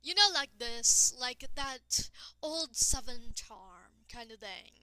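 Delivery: lightly put-on old Southern charm drawl; a hint of drawn-out Southern accent. Shown as a demonstration. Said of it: "I'll do an impression".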